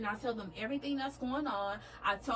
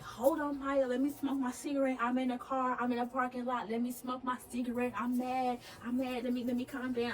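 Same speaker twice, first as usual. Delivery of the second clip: mildly agitated, slightly raised pitch; retold mad mama; 2 semitones higher than usual. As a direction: imitate a mom trying to calm down. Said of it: "she is freaking mad".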